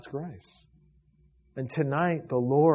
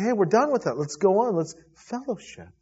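God's voice; 7 semitones higher, 5 dB louder than usual. Acted. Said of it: "He wants to say".

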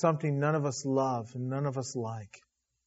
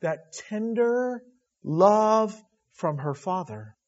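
tender slow; 4 semitones higher, slower than usual. Real, not acted.

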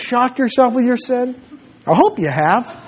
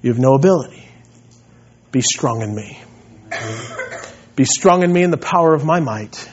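a hint of God speaking gently to him; voice of the Lord; 3 semitones lower than usual. The Lord telling the pastor to be strong, low and gentle. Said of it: "that the Lord tells me".

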